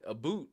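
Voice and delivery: "a boot" with a long oo in place of ow; mock Canadian vowel, "a boot" rhyming with suit; Canadian "about". Streamer explaining the Idaho accent, "a boot" said with mock Canadian oo. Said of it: "sounds like they wanna say".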